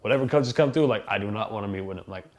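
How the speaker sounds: loud, exasperated demands to be left alone; fed-up teen. Retold or imitated. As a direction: insist loudly you're done with recruiting. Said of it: "I told Aliotti".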